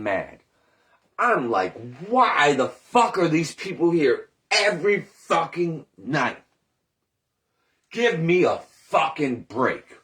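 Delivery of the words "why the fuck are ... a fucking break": louder, clipped mock fury, swearing at the crowd; retold furious rant. Cook fed up with nightly customers, retold louder furious rant. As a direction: rant it like you're fed up all over again. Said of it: "I got fucking furious".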